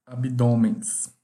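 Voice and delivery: abdômenes spelled out slowly, syllable by syllable; abdômenes drawn out like a teacher; slow demo word. Shown as a demonstration. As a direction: stretch abdômenes out for the class. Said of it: "ou S".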